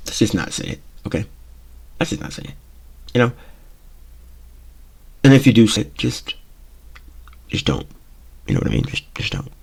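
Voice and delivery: hushed. Real, not acted. Pleading aside.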